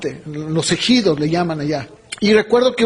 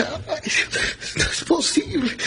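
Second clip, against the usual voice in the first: high, softer wail of disbelief; mock dismay; 7 semitones higher, 6 dB quieter, slower than usual. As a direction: act out a reluctant lament. Acting out his dismay at God. (lamento fingido, agudo e incrédulo)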